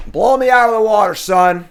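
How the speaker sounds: loud, high hype yell; excited shout. Real, not acted. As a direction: shout it out, pumped.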